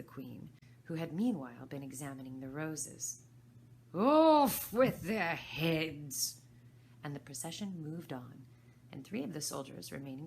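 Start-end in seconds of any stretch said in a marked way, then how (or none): 3.9-6.4 furious order. Acted. Queen orders execution.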